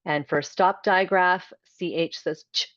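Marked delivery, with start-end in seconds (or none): 1.8-2.7 ch clipped short; a quick crisp ch; ch with no vowel after. Shown as a demonstration. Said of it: "so it's very short and crisp".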